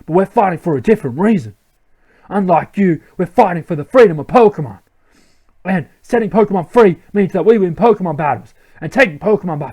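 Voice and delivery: lightly voiced villain, proclaiming; villain grunt. Team Plasma grunt threatening to take Pokemon, lightly acted villain. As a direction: announce the cause like a henchman.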